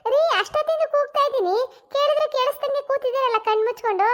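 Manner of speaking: laughing. Acted. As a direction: laugh at him as you talk.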